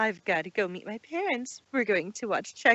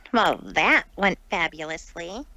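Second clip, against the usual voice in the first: deadpan; 5 semitones lower, 4 dB louder than usual. Acted. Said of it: "in a complete deadpan voice".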